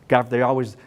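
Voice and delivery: ordinary talk, nothing marked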